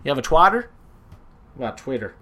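slightly tipsy, stumbling words; tipsy muddle over the word tweeter. Real, not acted. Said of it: "I'm a little tipsy".

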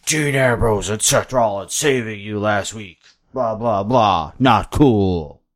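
slowed-down wrestler voice; mock wrestler promo, dragged out; deliberate, slow tough-guy delivery; Braun. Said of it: "Braun then comes out".

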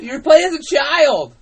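high shouted announcement; loud exclamation. Real, not acted. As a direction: shout it out, pitched right up. Calling out over the other speaker.

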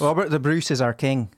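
Scottish accent with rolled R. Shown as a demonstration. Guest giving the requested sentence, Scottish accent. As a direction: say it as a Scot would. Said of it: "say a sentence in a Scottish accent".

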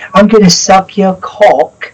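slow, exaggerated Cockney; jokey Cockney impersonation; mock Cockney accent. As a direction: draw it out in a put-on Cockney accent. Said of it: "She's got a Cockney accent".

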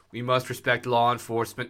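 put-on lightly done Boston Kennedy accent on a Trump quote; Kennedy impression. Mocking Trump's speech to Congress in a light Kennedy accent. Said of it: "Now I'm doing Kennedy".

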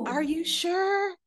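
hammed-up high-pitched brush-off; mock condescending yogi. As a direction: imitate a snooty yogi, breaking into laughter. Caricature of women turning her away.

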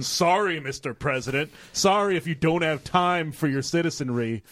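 mock-apologetic sarcasm; sarcastic. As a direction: lay on a fake apology. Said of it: "Did he say it all sarcastically".

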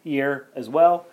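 stiff robot voice. Real, not acted. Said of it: "I don't know why I'm talking like a robot".

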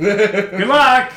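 loud, high-pitched send-off shout; fish-man cowboy. Acted. Fish-man cowboy sees the party off, hammed-up shout. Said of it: "cowboy is like".

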